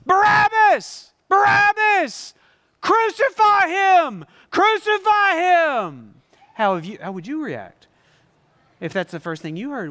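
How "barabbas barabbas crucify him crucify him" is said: slow, loud, high chanting shouts; angry mob shouting. Acted. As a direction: scream it like a furious crowd. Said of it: "the only thing he can hear is this".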